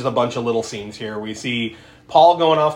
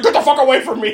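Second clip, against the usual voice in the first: high, loud retold shout; hammed-up angry yell; mock yell; 10 semitones higher, 6 dB louder, faster than usual. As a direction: shout it at the coughing woman. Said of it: "Bert's like".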